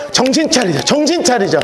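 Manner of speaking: rally yourself awake; rousing self-wake call. Shown as a demonstration. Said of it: "두 손으로 스스로를 깨우는 거예요".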